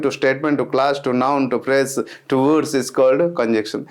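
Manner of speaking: slow, even recitation of a textbook definition, word by word; slow dictated definition. Acted. Teacher dictating to exam students, slow and measured. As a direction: read it out as if students are copying it down.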